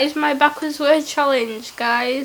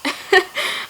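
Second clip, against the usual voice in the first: high, breath-filled giggle; laughing; 7 semitones higher than usual. Real, not acted. Hearing basket played backwards, amused giggle. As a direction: burst into a quick high laugh.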